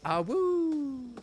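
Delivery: high howled awoo; wolf voice. Pretend. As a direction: howl back like a wolf. Echoing a chat howl.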